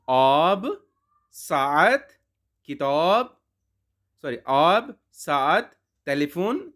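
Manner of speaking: each word said on its own, clearly; vocabulary drill. Shown as a demonstration. Teacher reading the Persian vocabulary list to students. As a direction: read each word as a separate drill item. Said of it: "نیچے الفاظ کو دیکھیے".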